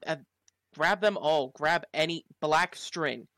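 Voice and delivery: loud, slowed urgent orders; urgent shout. Acted.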